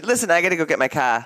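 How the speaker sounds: natural Boston accent, quick; quick, everyday Boston speech. Shown as a demonstration. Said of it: "If they just talk normal".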